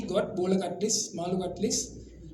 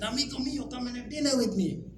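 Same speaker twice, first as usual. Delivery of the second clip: Italian Roman merchant; 5 semitones higher than usual. Retold or imitated. Roman merchant thanking the Indian merchant, gushing Italian-accented voice. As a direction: throw your arms open like a delighted Roman trader.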